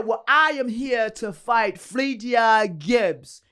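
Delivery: mock French accent, slow and loud; slow, deliberate imitation of a French accent. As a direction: announce it in a put-on French accent. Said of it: "in her French accent".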